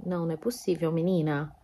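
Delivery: softly exasperated, can't believe it; muttered dismay at the heroine; lightly voiced exasperation at the book; quiet disbelief. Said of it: "eu bem assim".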